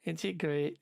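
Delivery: Scouse attempt slipping into West Country; mock West Country, badly aimed; accidental West Country accent. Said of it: "why I'm doing West Country accent".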